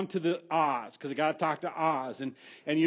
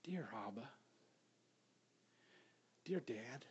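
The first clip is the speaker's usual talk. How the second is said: hushed, much softer, affectionate; tender intimate prayer; 3 semitones lower, 7 dB quieter than usual. Shown as a demonstration. Preacher showing the congregation how to begin praying, hushed and tender. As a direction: whisper it like a child to a loving dad. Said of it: "here's the way you start".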